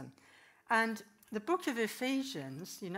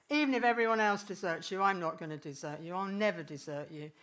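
fast, emphatic protest, louder at the start; insistent vow; 5 dB louder, faster than usual. Acted. Peter protesting loyalty to Jesus, fast and insistent. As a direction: swear you'll never leave him.

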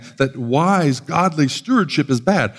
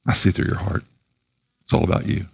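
God's voice; 8 semitones lower, faster than usual. Retold or imitated. Voicing God's reply.

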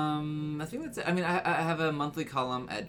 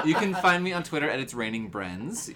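laughing; 3 semitones higher, 4 dB louder than usual. Acted. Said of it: "I'm just British again".

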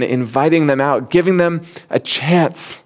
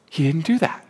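usual speaking voice

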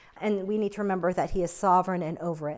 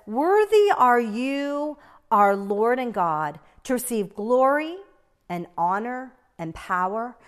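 slow, solemn Bible recitation; solemn reading of Revelation; scripture reading; 4 dB louder, slower than usual. Acted. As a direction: read the verse slowly and reverently. Reads scripture slowly.

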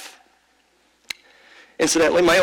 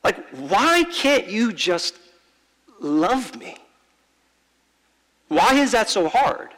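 hurt plea; 2 semitones higher, slower than usual. Retold or imitated. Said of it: "But I said".

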